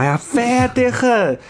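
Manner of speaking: high, drawn-out Sichuanese grumble; playfully exaggerated exasperation in Chengdu dialect; fierce Chengdu dialect. Shown as a demonstration. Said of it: "就有这种情绪". (夸张又不耐烦的成都话)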